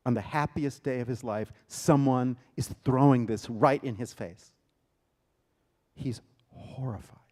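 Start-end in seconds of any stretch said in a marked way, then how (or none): 6.0-7.2 hushed whisper of horror. A narrator's reading. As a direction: breathe it out, voiceless. Hushed aside in tense story.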